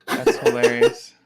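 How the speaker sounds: high, loud and slow; high squeal. Real, not acted. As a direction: squeal it out with delight. Reacting to neighbor's failed throw.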